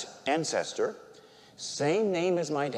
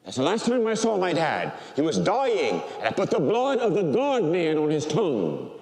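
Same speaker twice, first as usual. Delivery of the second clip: ordinary delivery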